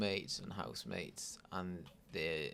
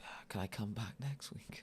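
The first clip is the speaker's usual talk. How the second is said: whispered plea; 5 dB quieter than usual. Retold or imitated. Retold drunk plea.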